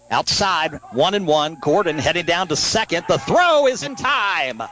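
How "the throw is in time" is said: high, drawn-out play-by-play call; excited out call. Real, not acted. Live call of runner thrown out.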